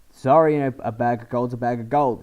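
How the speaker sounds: put-on light Australian accent, bag of gold line; a touch of Aussie twang. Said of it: "I'm doing an Australian accent".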